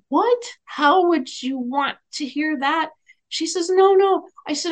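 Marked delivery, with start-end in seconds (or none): 0.1-2.9 startled disbelief. Retold or imitated. Baffled thought at her reaction. 3.7-4.3 high, loud insistent no; emphatic denial. Retold or imitated. Grateful client stopping the medium's apology, high loud insistence.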